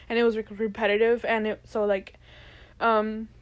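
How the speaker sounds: talking through burps; words broken by little burps; burping. Real, not acted. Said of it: "sorry, I keep, like, burping".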